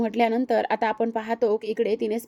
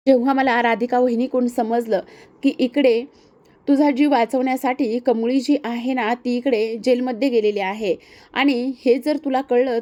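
louder, pressing each phrase to her mother; emotional outburst; 5 dB louder than usual. Acted. Praju pours out the truth to her mother, louder and pressing. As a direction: push it out as if it's bursting from her.

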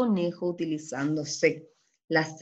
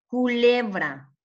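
CULEBRA slow and deliberate, syllables stretched; sounding out; 3 semitones higher, 3 dB louder, slower than usual. Shown as a demonstration. Teacher repeating the word so pupils judge its sound, slow. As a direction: sound out "Culebra" slowly for the class.

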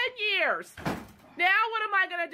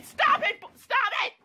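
sharp, higher-pitched command, repeated; exasperated scolding; 5 semitones higher than usual. Real, not acted. Mother breaking off to stop her son, sharp high scolding. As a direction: cut in, pitched up and urgent.

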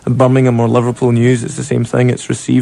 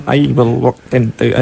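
put-on Scottish accent. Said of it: "it's all consonants and no vowels".

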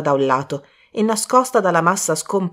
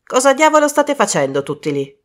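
raised, theatrical call; a bit dramatic; 7 semitones higher, 4 dB louder than usual. Acted. Desmond arriving and calling to the group, somewhat dramatic. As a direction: make a show of it. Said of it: "in tono un po' drammatico".

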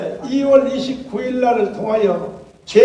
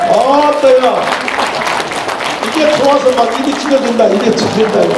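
delighted exclamation; 2 semitones higher, 5 dB louder than usual. Real, not acted.

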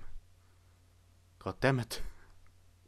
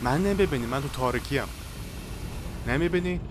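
anxious shouting; 3 semitones higher, 3 dB louder than usual. Real, not acted. Hiding in dark, shouting at monster.

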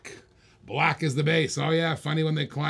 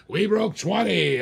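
slower, higher, drawn-out announcement; excited; 4 semitones higher, slower than usual. Real, not acted. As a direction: savor the milestone like a hype call. Auctioneer celebrating bid milestone.

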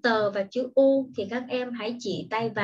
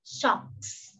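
socks whispered softly; whispered model word; 5 dB quieter than usual. Shown as a demonstration. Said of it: "Đó chính là". (thì thầm chữ socks)

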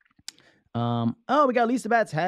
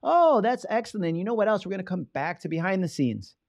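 host voice; 6 semitones higher than usual. Retold or imitated. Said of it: "I'm like".

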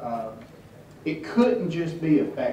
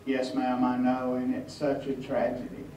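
mock solemn; 2 semitones lower, 6 dB quieter than usual. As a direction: imitate a man gravely confirming bad news. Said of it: "lower his head and shake it and say".

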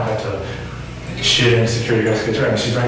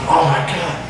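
high, restrained mock scream; imitated screaming; 6 semitones higher than usual. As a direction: imitate her cry, pitched up. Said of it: "and screaming".

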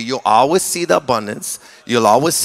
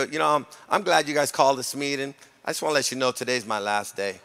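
quiet calm resignation; 8 dB quieter than usual. Retold or imitated. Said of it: "I go".

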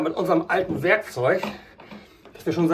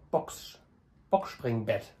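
hushed, breathy whisper; whispering on the phone; 8 semitones lower, 9 dB quieter, much slower than usual. Real, not acted. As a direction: whisper it under your breath. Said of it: "warum flüsterst du?".

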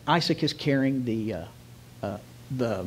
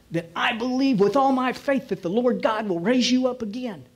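acted fervent declaration; 3 semitones higher, 3 dB louder than usual. Abraham telling his son he is the sacrifice, fervent declaration. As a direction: declare it with growing conviction.

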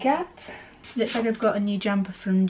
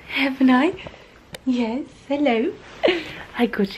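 high cooing pet voice; 6 semitones higher than usual. Real, not acted. Cooing to cats.

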